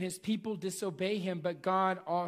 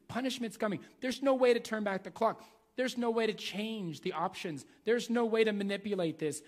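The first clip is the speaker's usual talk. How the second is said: higher-pitched, emphatic voicing of David; David pleading his case; 3 semitones higher than usual. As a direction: argue it insistently, pitch raised. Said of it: "he wanted to say".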